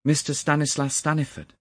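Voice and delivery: name the man in astonishment; shocked cry. A narrator's reading. Narrator cries out on recognising the body, shocked. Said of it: "I cried".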